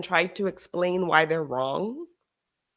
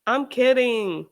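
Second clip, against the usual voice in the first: mock quote; 5 semitones higher, slower than usual. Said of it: "They're just saying it".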